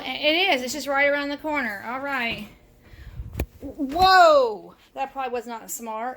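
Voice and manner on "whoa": startled whoa. Real, not acted. Steam bursts out of oven.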